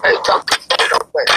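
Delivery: whispered I ain't talking to you. Real, not acted. Whispering to the stream, sulking. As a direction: breathe it as a whisper.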